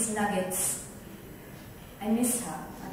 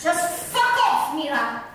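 fed-up outburst; 5 semitones higher, 3 dB louder than usual. Acted. Violet has had enough.

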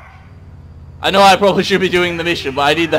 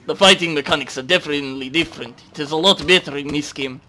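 put-on Russian accent; casual imitation of a Russian accent; 3 semitones lower than usual. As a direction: comment on the game in a mock Russian accent. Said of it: "I don't know why I'm speaking Russian".

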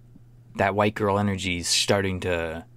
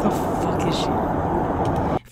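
hushed, breathy question; whispering; 8 semitones higher, much slower than usual. Pretend. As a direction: whisper it to yourself. Voicing woman stuck in car.

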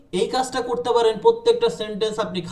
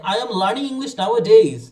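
slow, louder model sentence; slow demo line; 5 dB louder, much slower than usual. Shown as a demonstration. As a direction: say it slowly and clearly. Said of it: "actually মানে আসলে".

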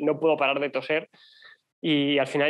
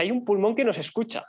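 laughing; 8 semitones higher than usual. Retold or imitated. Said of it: "empieza a reír y me dice".

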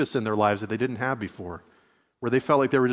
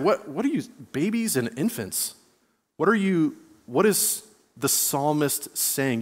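baffled reaction; 2 semitones higher than usual. Acted. Reader stumbling on a weird verse, acted-out bafflement. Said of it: "Verse two is a weird one".

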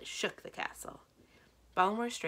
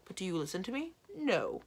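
exasperated scolding, pitched up; 6 semitones higher, 3 dB louder than usual. A narrator's reading. Giantess nagging husband about his cold, scolding. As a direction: nag with rising exasperation. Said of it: "Ballamore scolded".

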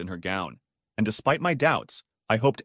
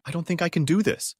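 higher-pitched, close to tears; tearful; 6 semitones higher than usual. A narrator's reading. Bride confessing doubts to her daughter, tearful. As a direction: plead as tears well up. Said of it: "her eyes welling up with tears".

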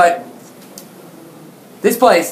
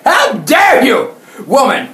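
mock indignation. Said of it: "I thought to myself".

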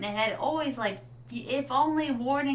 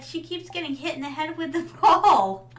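louder, higher retold complaint, breaking into a laugh; exasperated onlookers; 4 semitones higher, 6 dB louder than usual. Streamer retelling schoolmates' remarks about her, mock exasperation. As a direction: mimic the onlookers, amused and louder. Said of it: "they're like".

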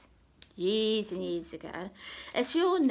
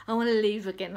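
a loud, bright cry of relief; joyful outburst; 6 dB louder, faster than usual. Retold or imitated. Mork bursting out of the glass bubble, loudly joyful. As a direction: burst out with it, glad to be alive.

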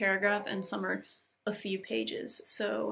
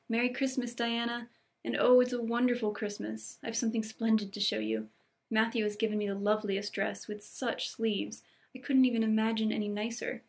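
lightly voiced, eager young girl; excited Anne. Anne runs to tell Diana about the dress, mildly excited. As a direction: share happy news with mild excitement.

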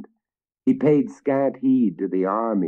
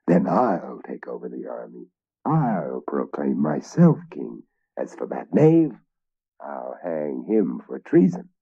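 scheming villain; 4 semitones lower than usual. Acted. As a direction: gloat over the plan. First knight plotting after laughing.

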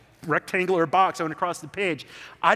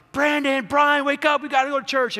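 put-on high, loud call to wake the boys; parents yelling; 8 semitones higher, 4 dB louder than usual. Parents calling the sleeping boys for church, loud high shout. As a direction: shout it up the stairs, higher and louder.

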